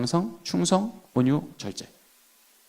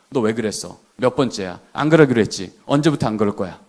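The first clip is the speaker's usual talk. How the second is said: interrogating teacher; 9 semitones lower than usual. Acted. 교사가 아이를 몰아붙이는 장면.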